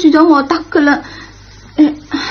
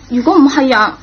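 tearful plea. Acted. Pupil pleading remorsefully to teacher.

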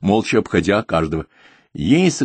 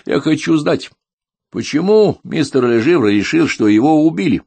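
raised pitch, insistent irritated questioning; angry demand; 8 semitones higher, 4 dB louder than usual. A narrator's reading. Husband brushes off wife to question the accuser, angry. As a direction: demand an answer, pushing the key words upward. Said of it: "разозлился муж".

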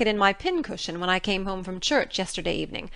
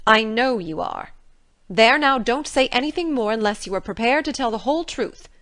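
put-on angry older woman, much louder; stern order; 7 dB louder than usual. A narrator's reading. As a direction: send her to her room firmly. Marilla ordering.

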